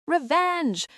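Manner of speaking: sharp high shout from the back; yell. A narrator's reading. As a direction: call it out across the room. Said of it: "a voice yells".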